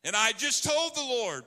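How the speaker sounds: mildly hammed-up bravado; boastful Peter. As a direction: Peter swearing loyalty to his master. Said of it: "Peter said".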